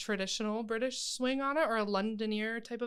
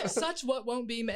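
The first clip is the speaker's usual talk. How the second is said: Mrs Lovett Cockney try. Shown as a demonstration. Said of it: "how to get that accent".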